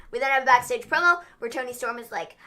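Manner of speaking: normal talking voice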